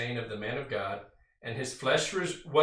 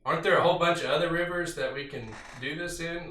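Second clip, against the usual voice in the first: higher, louder mock-indignant protest; furious retort; 4 semitones higher, 4 dB louder than usual. Preacher voicing Naaman's outrage at the river, mock-furious. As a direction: act out Naaman's angry huff. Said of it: "he's furious because he's basically saying".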